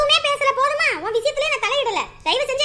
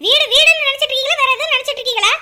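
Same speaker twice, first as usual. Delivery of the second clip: angry; 6 dB louder than usual. Acted. Angry accusation continues.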